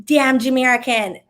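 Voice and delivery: put-on Jamaican accent, slow stress on damn. Imitating her vexed dad in a Jamaican accent. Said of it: "the way I just said that was very Jamaican".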